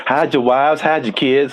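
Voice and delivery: imitating the viral "hide your kids" interview; meme quote. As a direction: ham up the famous news clip line. Quoting viral news meme.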